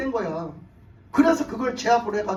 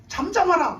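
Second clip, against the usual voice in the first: high-pitched, forceful acted command; stern rebuke; 6 semitones higher, 4 dB louder than usual. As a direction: rebuke the storm to make it still. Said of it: "그러면서 막 꾸짖으세요". (풍랑을 높은 소리로 꾸짖듯이)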